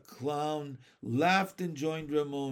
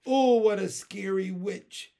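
high, louder mock fright, lightly done; absent-minded; 5 semitones higher, 7 dB louder than usual. A narrator's reading. Teacher humouring a masked pupil, absent-minded. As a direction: humour the child with token alarm. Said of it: "said Miss Spinny rather absent-mindedly".

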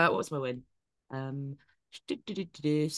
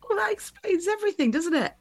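mock spooky; 14 semitones higher than usual. Mock-spooky remark about thirteen.

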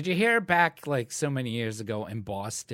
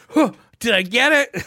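high, loud mock bewilderment; imitated clueless friend; 9 semitones higher, 9 dB louder, faster than usual. Retelling a friend's failed reflexes, mock-bewildered. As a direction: act out his puzzled reaction, pitched up.

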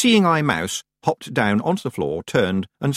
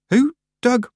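horrified; 5 dB louder than usual. Acted. Tiffany horrified at grave.

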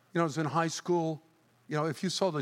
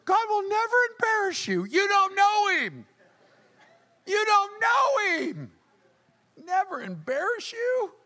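mocking know-it-all; 8 dB louder than usual. Preacher mimicking a smug believer to the crowd. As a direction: ham up the smug doubter. Voicing someone who denies this.

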